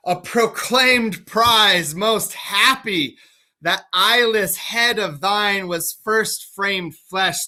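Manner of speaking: slow, drawn-out gloating; gloating villain. Acted. Oswald to the blind Gloucester, slow and gloating. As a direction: savour the prize word by word.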